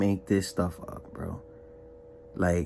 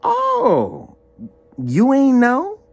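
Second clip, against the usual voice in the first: much higher, louder, offhand; high mocking imitation of the friend; friend's casual reply; 11 semitones higher, 5 dB louder, much slower than usual. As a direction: mimic the friend shrugging it off. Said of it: "this man told me on the phone".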